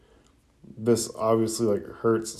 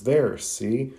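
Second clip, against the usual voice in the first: lightly acted excited exclamation; a touch of pleased excitement; mildly excited; 2 semitones higher than usual. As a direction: show off the result with a lift in pitch. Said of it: "Ino excitedly exclaims".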